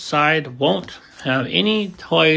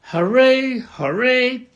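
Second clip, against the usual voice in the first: joyful cheer; 8 semitones higher than usual. A narrator's reading. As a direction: cheer at the top of the mountain. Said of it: "cried the funny little clown".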